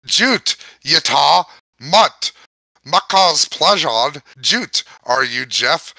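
put-on reading gibberish in an Irish accent; lilting Irish accent, storybook reading. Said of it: "now I'm fucking doing the Irish".

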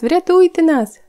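high, loud crying plea; sobbing plea. Acted. Sniff repeats his plea to the Hemulen, sobbing. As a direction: keep begging through tears. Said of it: "ридав Чмих".

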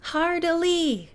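high, slow call with a laugh; half-hearted sailor's yell. A narrator's reading. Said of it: "yelling out sailor stuff".

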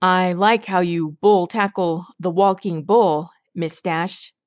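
put-on voice of an older stallion, amused; amused father figure. A narrator's reading. Red Turnip praising Rainbow Dash's tackle, smiling approval. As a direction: say it with a smile, in character. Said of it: "Red Turnip smiled".

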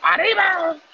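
high, loud toast cry; cheer. Real, not acted. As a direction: shout it up as you raise the shot. Toasting with tequila shot.

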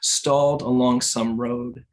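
measured poem recital with pauses between phrases; poetry reading. Acted. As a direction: read the poem in deliberate, separated phrases. Reads own poem aloud.

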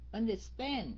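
"Understand" leaning on a long stand; last-syllable stress. Shown as a demonstration. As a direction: land hard on the end of "Understand". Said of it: "Stress on the". ("Understand" nhấn âm cuối)

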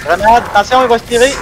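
high, loud urgent warning; grenade warning. Real, not acted.

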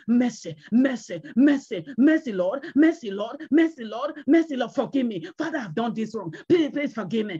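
repeated, urgent mock plea to God; acted penitent begging over and over; pleading for mercy. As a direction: beg in bursts, like a breaking sinner. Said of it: "You are asking God".

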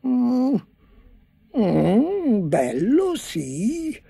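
slow, hesitant fake praise; feigned admiration. A narrator's reading. Chancellor faking praise to the tailors, hesitant. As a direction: pretend you see it. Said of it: "mormorò".

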